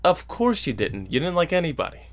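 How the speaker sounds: ordinary delivery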